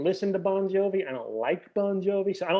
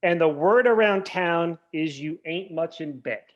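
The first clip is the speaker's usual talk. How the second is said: reciting lyrics; 4 dB louder than usual. Retold or imitated. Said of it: "He changed it to".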